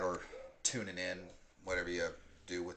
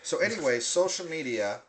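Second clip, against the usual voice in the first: mock restart, laughing; 6 semitones higher, 4 dB louder than usual. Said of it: "no, I'm joking".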